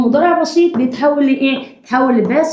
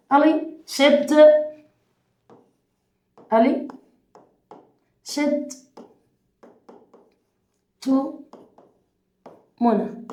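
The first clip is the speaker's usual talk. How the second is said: slow dictation; 4 dB quieter than usual. Shown as a demonstration. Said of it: "اكتب ورايا".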